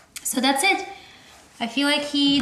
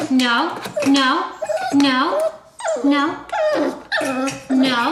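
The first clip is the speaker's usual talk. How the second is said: firm no; 5 semitones higher, 6 dB louder, slower than usual. Real, not acted. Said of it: "you want to say no every time he whimpers".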